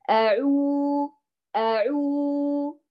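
أعو very slow with lips round but relaxed; correct round ʿu. Shown as a demonstration. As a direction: model أعو slowly, rounded without clenching. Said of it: "بهذا الصوت".

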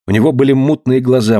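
plain reading voice

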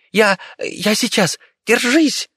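high, slow squeaking rodent shout; a tiny rat rushing into battle; squeaky rat cry. Acted. The rat calls to Viki while rushing into attack, high squeak.

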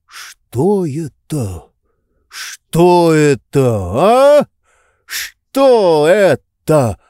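slow, breathless disbelief after the slap; stunned gasping. A narrator's reading. Tarantyev reeling from Oblomov's slap, slow breathless shock. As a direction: gasp the question out, reeling. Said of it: "задыхаясь, говорил он".

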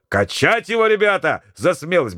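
high, eager rallying call; excited call. Acted. Mate urging the crowd to toss Marat, excited. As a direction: whip up the crowd. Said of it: "закричал Козырев".

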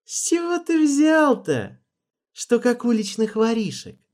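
icy voice. A narrator's reading. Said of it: "заледеневшим голосом".

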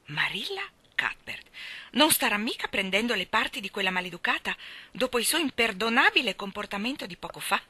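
bristling disbelief; indignant outburst. Acted. Rachel Lynde indignantly confronts Marilla. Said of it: "sbottò indignata".

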